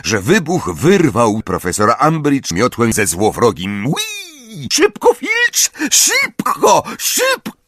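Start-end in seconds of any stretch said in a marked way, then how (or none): 3.9-4.7 very high, soft drawn-out "wheee"; high squeal. A narrator's reading. Onomatopoeic squeal of the rocket. 4.7-7.6 very high-pitched frantic shriek. A narrator's reading. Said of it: "wrzasnęła Umbridge".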